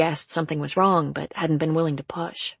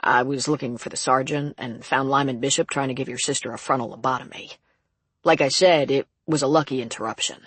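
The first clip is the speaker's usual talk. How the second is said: lightly voiced guard, a touch lower; modest prison guard; 3 semitones lower than usual. Guard telling sister about the rescue, lightly voiced and modest. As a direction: recount it with understated modesty.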